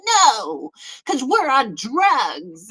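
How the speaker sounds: slow, drawn-out stoner refusal; mock druggie. Mimicking drugged festivalgoers refusing cops.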